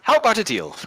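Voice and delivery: put-on shopkeeper in an Indian accent. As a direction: pitch the offer high, Indian accent. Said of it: "develop an Indian accent there".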